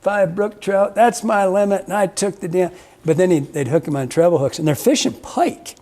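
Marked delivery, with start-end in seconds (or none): 0.0-2.7 put-on indignant old man. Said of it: "he goes".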